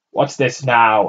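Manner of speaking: fat man calling out loud. A narrator's reading. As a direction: call it out from the shop door. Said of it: "a fat man called".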